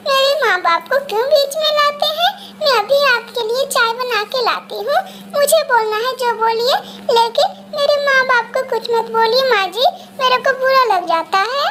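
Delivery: aggrieved daughter-in-law pleading; hurt protest. Acted. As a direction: stand up for insulted parents, mildly upset. Daughter-in-law protests insult to parents.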